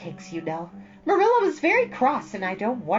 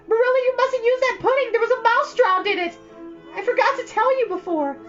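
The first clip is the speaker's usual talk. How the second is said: high piercing shriek, much louder; 7 dB louder than usual. Acted. Anne shrieking a warning to Marilla at the table. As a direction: blurt it out in a panicked shriek.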